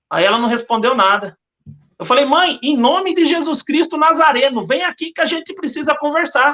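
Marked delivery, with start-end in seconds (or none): 2.3-6.5 slow, higher-pitched summons; retold firm order to a mother; solemn command. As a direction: call her over with measured authority. Retold command to mother in Jesus' name.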